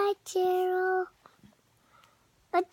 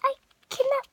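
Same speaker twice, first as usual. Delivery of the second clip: higher, half-crying "oh, no"; mock alarm; 6 semitones higher, much slower than usual. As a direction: wail it like a worried pig in a picture book. Reading pig's worried lines.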